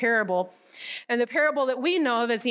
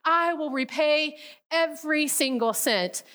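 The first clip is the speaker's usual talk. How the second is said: higher, slowed-down begging; a retold plea from his knees; pleading on his knees; 4 semitones higher than usual. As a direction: beg for time, voice lifted. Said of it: "He drops to his knees and says".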